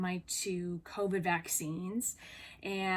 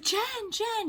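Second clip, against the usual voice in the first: high, sing-song call of a name, mildly mocked; imitating calling out; 12 semitones higher than usual. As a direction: call her name across the sidewalk, mock-sweet. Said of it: "So she's like".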